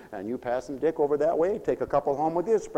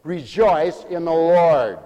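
slow, deliberate statement; slow emphasis; 6 dB louder, much slower than usual. Real, not acted. Preacher explaining discriminate joy, slow emphasis. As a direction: say it slowly, weighing each word. First, restrained take of the command.

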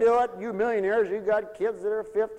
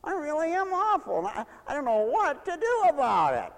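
mock whine; 4 semitones higher than usual. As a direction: whine along, hamming up the pity. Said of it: "whine along with it".

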